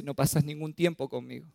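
mock tearful child complaining; half-hearted imitation of a weeping girl; imitating crying daughter. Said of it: "llorando me dice".

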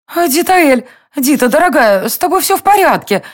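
a concerned queen calling to her friend; worried queen. A narrator's reading. (встревоженная королева, выше)

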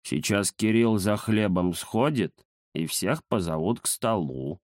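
низко и медленно, смакуя слова; с важностью растянуть про обед; важный кот Захар. Acted. (Захар важно объясняет про обед)

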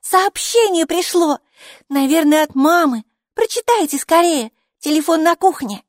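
high, loud call from another room; shouting news. A narrator's reading. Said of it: "закричала Майки из гостиной".

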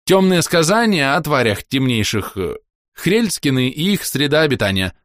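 nervous bleating. A narrator's reading. Hero invents a book title, bleating uncertainly. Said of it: "проблеял я".

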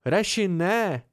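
alarmed cry. A narrator's reading. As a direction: stop your friend in sudden alarm. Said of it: "vykřikl polekaně Bast".

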